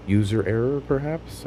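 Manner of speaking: a sharp high rise, doubting himself; wry questioning. Real, not acted. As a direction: toss it off as a rueful question.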